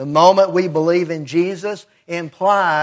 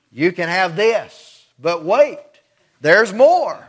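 lightly imitating an infomercial, rising to "there's more"; TV commercial pitch. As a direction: tease the extra offer like a TV pitchman. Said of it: "those commercials that they'll say".

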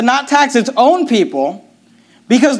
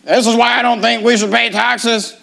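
Kent Hovind. Retold or imitated. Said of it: "before you get all Kent Hovind on me".

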